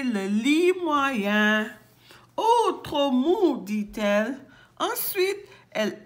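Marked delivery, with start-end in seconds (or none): 2.4-3.6 higher, louder, drawn-out complaint; displeased. Acted. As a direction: stretch out the complaint, slow and high. Rejecting the bed as too soft.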